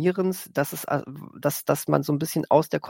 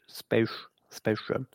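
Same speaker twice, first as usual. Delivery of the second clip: whispered aside; 4 semitones lower, 5 dB quieter, much slower than usual. Real, not acted. Mumbled aside before correcting.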